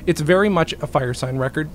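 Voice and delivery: hoarse, voice giving out; strained, cracking voice; losing voice. Real, not acted. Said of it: "I'm losing my voice".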